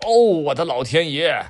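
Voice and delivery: oh no, the floor is flooded; shocked gasp. Acted. Dad spots the water under the door, alarmed cry.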